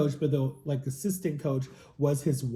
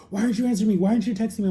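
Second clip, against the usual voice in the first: higher, louder needy complaint; mild mock son whining; whiny son; 6 semitones higher, 3 dB louder, much faster than usual. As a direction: whine like a neglected kid. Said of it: "he's like".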